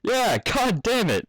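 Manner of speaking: high, loud, slow playful copycat; mimicking filly. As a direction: gleefully parrot the grown-up's curse. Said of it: "mimicked Sweetie".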